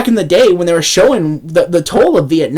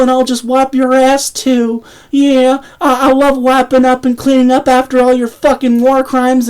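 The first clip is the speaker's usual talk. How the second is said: mock servile Mueller; 4 semitones higher than usual. Mock Mueller talking to Bill.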